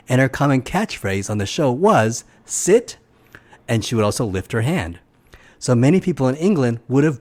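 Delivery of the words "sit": high, firm dog-trainer command; kind but firm. Retold or imitated. Reviewer quoting a dog trainer's catchphrase, kind but firm. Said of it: "using a kind but firm tone".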